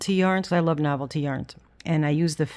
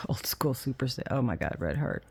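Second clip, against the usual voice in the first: whisper; 3 semitones lower, 6 dB quieter than usual. Real, not acted. Muttered aside about yarn.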